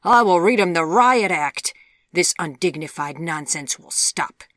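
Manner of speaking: high, very loud outburst, easing to firm decree; explode, then lay down the law; outraged. A narrator's reading. Mother exploding at her defiant young daughter, outraged.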